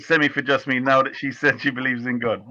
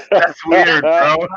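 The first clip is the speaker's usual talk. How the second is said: hammed-up SoCal bro; mock California surfer voice; Californian accent; 4 dB louder, much slower than usual. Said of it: "imitating the Californian voice".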